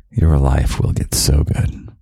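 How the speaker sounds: normal talking voice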